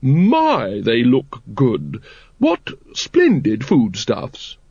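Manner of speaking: posh lady, barely hiding horror; politely mask your disgust; hint of horror. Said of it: "faintest suggestion of horror in her voice".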